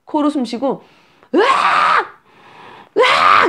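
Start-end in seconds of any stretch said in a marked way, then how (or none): 1.4-3.5 high, loud newborn wail; imitated baby cry. Shown as a demonstration. Demonstrating a hungry crying baby, high loud wailing. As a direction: let out two mock baby wails. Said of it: "이렇게 울고 있는데".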